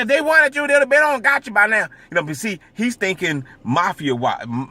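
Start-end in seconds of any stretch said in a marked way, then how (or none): 0.0-1.9 put-on southern accent uncle. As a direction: imitate the uncle from Alabama, loud and southern. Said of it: "he be talking real loud".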